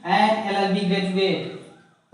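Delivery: an L L B graduate drawn out very slowly; slow answer. Shown as a demonstration. Teacher slowly revealing the answer to students. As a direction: spell out the answer word by word. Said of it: "क्या हो जाएगा".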